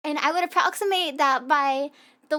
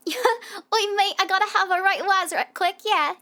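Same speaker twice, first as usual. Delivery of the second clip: hammed-up Cockney lad, louder; mock London geezer asking for the loo; mock British accent; 4 semitones higher, 4 dB louder than usual. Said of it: "I also really enjoy bastardizing them".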